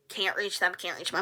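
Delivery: soft whisper; hushed admission she can't reach her parents. Real, not acted. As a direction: breathe it out under the voice. Whispered aside.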